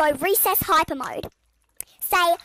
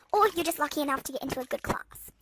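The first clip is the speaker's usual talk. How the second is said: whisper; 3 semitones lower, 7 dB quieter, faster than usual. Real, not acted. Aside in a whisper.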